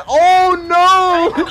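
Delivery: high, loud mock dread with a laugh. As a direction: groan it out as things go from bad to worse. Dread as friend digs deeper.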